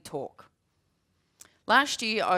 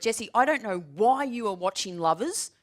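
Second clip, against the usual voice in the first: stern telling-off; 4 dB louder than usual. Retold or imitated. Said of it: "turned around and said".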